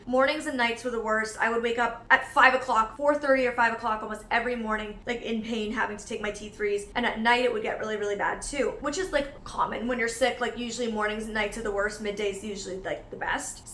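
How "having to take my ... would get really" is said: ordinary talk, nothing marked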